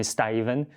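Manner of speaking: "Steven" with first vowel like "stay" or "sty"; British pronunciation. Retold or imitated. Telling how British people call him, British-style "Steven". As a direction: imitate Brits saying "Steven" as "Stayven". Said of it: "when I would talk to British people".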